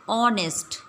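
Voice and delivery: ऑनेस्ट said with a silent h, starting on the O; pronounced honest. Shown as a demonstration. Teacher models ऑनेस्ट for the class. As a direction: say ऑनेस्ट as aw-nest, no h sound. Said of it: "honest को pronounce करो".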